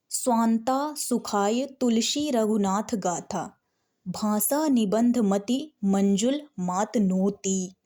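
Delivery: measured, slow devotional reading; slow verse recitation. Shown as a demonstration. Teacher shows students a Ramayana verse, slow recitation. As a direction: let each word of the verse stand.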